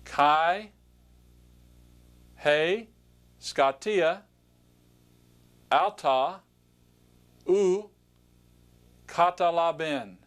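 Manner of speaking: slow word-by-word Greek pronunciation, each word set apart; reading Greek aloud. Shown as a demonstration. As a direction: pronounce each Greek word clearly for learners to repeat. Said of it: "point to the word and just pronounce it".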